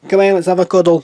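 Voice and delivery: high, loud call to cuddle; loud cooing call. Real, not acted. Cooing to pet, much louder.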